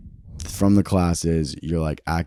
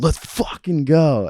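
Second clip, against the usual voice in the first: higher, slow, stretched-out hype call; hype shout; 9 semitones higher, slower than usual. Retold or imitated. Actor imitating his co-star hyping him up in the scene. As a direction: pump up your scene partner.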